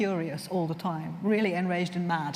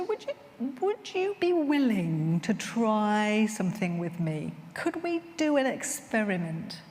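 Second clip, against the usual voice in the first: gentle invitation; slower than usual. Retold or imitated. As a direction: ease a frightened woman into trying. Gently asking abused client.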